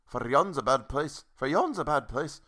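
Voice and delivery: tentative, not-quite-Scottish lilt; attempted Scottish accent. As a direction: feel around for a Scottish accent. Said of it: "Trying to find my Scottish accent".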